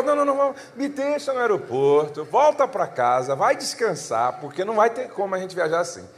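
high and loud, insistent; heated repeat. Retold or imitated. Pastor re-quoting his airport ultimatum to the congregation, loud and high. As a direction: push it out, fed up and firm. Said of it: "então falou".

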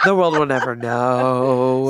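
milk the fake mystery with a laugh; hammed-up lingering cliffhanger; mock suspense. Repeats the mock cliffhanger, drawn out.

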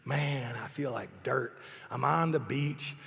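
mope it to yourself like a sulking husband; pity party. Retold or imitated. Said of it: "I was having a pity party".

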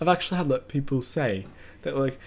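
passable, lightly worn British accent; put-on British accent. Shown as a demonstration. Telling friends the accent isn't bad, British accent. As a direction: speak in an amateur British accent. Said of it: "my British accent's not that bad".

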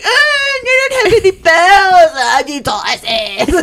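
high, slow, drawn-out mock wail; hammed-up sisters wailing through laughter. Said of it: "the sisters would come in and they'd be like".

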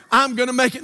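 half-hearted reply, not yet believing; unconvinced. Retold or imitated. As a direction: repeat it dutifully without conviction. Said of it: "Say it like you believe it".

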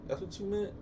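hushed, embarrassed query; sheepish realization. Retold or imitated. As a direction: ask it quietly, feeling silly. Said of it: "how stupid you feel when you calm down".

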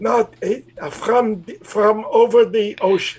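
high Bronx puppet greeting a friend; Toisty greets Mitch in Bronx accent. Acted. Puppet Toisty greets host Mitch, high and Bronx. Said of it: "He's from the Bronx".

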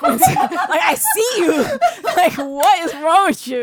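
giggling into the mic; laughing while teasing; giggly prank whisper. Real, not acted. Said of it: "Can you stop whispering into the mic?".

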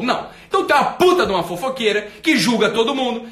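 ordinary talk

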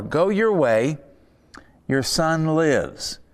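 slow, gentle promise, stretching lives; kind assurance. Retold or imitated. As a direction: reassure the father slowly. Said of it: "But he says more".

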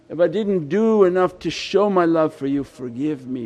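a heartfelt supplication, dropping onto each plea for forgiveness; pleading prayer. Acted. Worshipper asking at the holy threshold at night, pleading. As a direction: plead earnestly, drawing out the appeals. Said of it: "At night sit and ask".

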